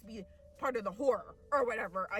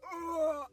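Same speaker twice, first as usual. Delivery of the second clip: raised groan of a struck dinosaur; mock dinosaur groan; 4 semitones higher, 4 dB louder than usual. Dinosaur hit by dad's bat, mock groan. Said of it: "the dinosaur is like".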